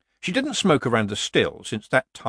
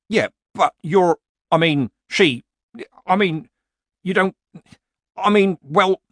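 higher, louder stammering; flustered villager; 8 semitones higher, 6 dB louder than usual. A narrator's reading. Villager floundering in front of Nanny Ogg. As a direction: stumble over the words, embarrassed.

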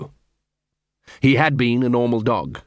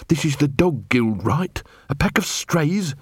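lightly growled, disdainful questioning; growling; 3 semitones higher than usual. Acted. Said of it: "she growled".

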